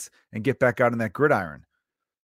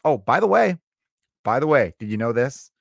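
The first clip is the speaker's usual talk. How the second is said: mock know-it-all; 2 semitones lower than usual. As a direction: lecture like a smug killjoy. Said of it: "someone pointing out".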